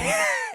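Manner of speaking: short high-pitched cackle; amused squeal of laughter. Real, not acted. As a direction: burst out in a quick, high giggle. Laughs at own retelling.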